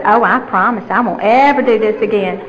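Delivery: mock earnest promise. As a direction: promise the officer with put-on innocence. Acts her promise to the officer.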